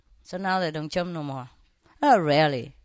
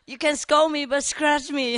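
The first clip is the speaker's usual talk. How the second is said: happy dog; 7 semitones higher, 4 dB louder than usual. Retold or imitated. Voices the happy scolded dog.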